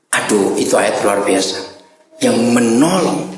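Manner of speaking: ordinary delivery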